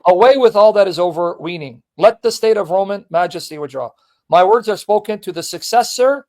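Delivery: measured, declaimed reading of a letter; formal reading aloud. Acted. Host reading a saint's letter to the pope, formal reading. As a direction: read it out with deliberate phrasing.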